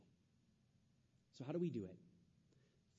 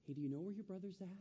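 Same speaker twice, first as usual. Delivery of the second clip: merciful God; 4 semitones higher, 4 dB quieter, faster than usual. Acted. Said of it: "in mercy and in compassion".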